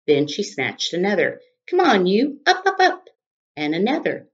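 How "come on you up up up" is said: very high, loud yell. Acted. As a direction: yell to wake them.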